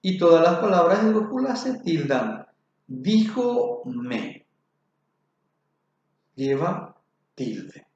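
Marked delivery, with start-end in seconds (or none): 2.9-4.5 "Díjome" with the stress on the first syllable, "Dí". Shown as a demonstration. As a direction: lean on "Dí" in "Díjome". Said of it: "la palabra se convierte en esdrújula".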